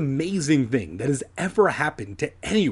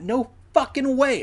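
scoffing; 12 semitones higher than usual. Acted. Adam mocking the dumb story, high scoffing disbelief. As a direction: pitch shoots way up in disbelief.

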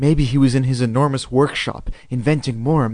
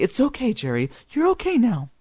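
soothing; 10 semitones higher than usual. A narrator's reading. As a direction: comfort a shaken child in a high, gentle voice. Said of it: "Mom said soothingly".

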